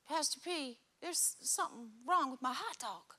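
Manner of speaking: lightly imitated kid with swooping pitch; puzzled kid. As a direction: play a troubled little complaint, lightly. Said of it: "And Jamie's like".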